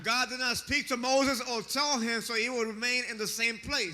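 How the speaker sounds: interpreter echoing a preacher's insistence; steady, emphatic pulpit delivery; preach. Real, not acted. Interpreter echoes the preacher's intensity.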